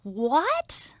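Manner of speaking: high, loud, incredulous "Come again?" breaking into a laugh; jaw-dropped surprise with a laugh; stunned disbelief. Retold or imitated. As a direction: act floored by the news, laughing in disbelief. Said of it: "I was like".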